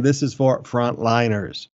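slow, measured stress on "frontliners"; emphatic repeat. Real, not acted. Pastor insisting who it is for, emphatic on "frontliners". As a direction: drive "frontliners" home slowly. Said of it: "Let me emphasize again".

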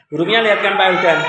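fast repeat. Real, not acted. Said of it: "Eh, hurufnya lihatkan Pak Wildan".

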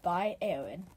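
low, slow, sultry perfume ad read.

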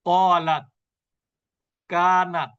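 কলাত and কানাত ending on a held, airless t; without hams. Shown as a demonstration. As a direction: close off the final t of কানাত with no breath. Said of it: "তাহলে এর উচ্চারণটা এভাবে হবে".

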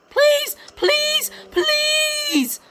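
high, sobbing begging; crying plea. Acted. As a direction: beg through tears. Begging the bird to return.

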